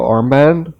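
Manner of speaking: accidental slip into a British accent; lightly British-accented "armband". Real, not acted. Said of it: "just went with a British accent there".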